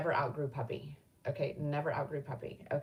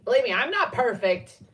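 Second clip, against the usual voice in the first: emphatic admission; 5 semitones higher, 9 dB louder than usual. Real, not acted. Emphatic admission after whispered aside.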